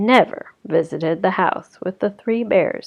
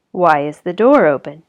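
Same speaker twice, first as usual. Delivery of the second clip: a hint of gruff Daddy Bear; lightly voiced gruff bear; deep gruff voice; 2 semitones lower, 6 dB louder than usual. Daddy Bear finds the door open, lightly gruff. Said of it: "in his deep, gruff voice".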